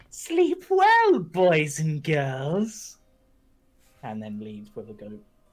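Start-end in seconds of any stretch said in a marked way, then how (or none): 0.1-2.9 booming, very slow, swooping, sing-song witch voice. Voicing a witch heard by the sleepy party: witch voice. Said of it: "you just hear the voice of, um, this witch".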